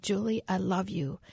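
same loving voice, now at full speaking level. Retold or imitated. Voice in the middle of the night, now clearly audible. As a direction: say it clearly, no longer hushed. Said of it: "that voice got louder and louder".

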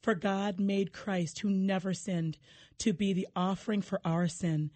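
measured solemn Bible reading; scripture reading. Acted. Reads Scripture aloud.

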